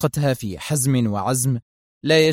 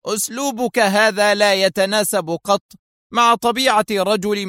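higher, hard, relentless reprimand; harsh sternness; 6 semitones higher than usual. Acted. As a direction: lecture him without mercy. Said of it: "بنفس اللهجة".

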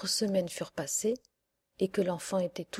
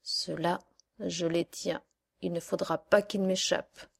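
honeyed witch. Acted. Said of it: "d'une voix mielleuse".

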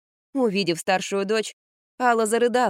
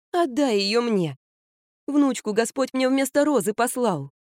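lightly voiced insistent mother; 4 semitones higher than usual. Mother pleading for the granddaughter, lightly voiced. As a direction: argue her case to the daughter.

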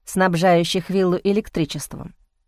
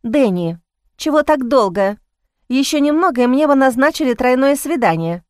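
slightly irritated; 3 semitones higher than usual. Acted. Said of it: "нормальным и слегка раздражённым голосом".

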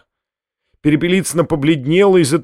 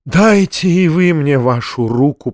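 ordinary delivery, nothing marked

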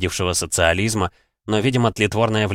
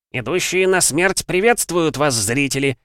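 arena announcer; 7 semitones higher than usual. Acted. Announcer adds a grand greeting.

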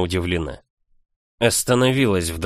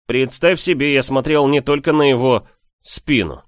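wry, amused; 6 semitones higher, 4 dB louder than usual. A narrator's reading. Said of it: "хмыкнул Микаэль".

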